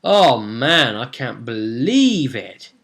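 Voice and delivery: slow, loud, amazed retelling; drawn-out disbelief after a close fight; retold relief. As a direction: imitate drained players marvelling. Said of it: "breathing heavy after, and they were like".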